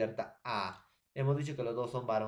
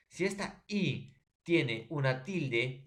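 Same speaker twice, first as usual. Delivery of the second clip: slow emphasis; 2 semitones higher, slower than usual. Shown as a demonstration. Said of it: "teacher stresses the condition".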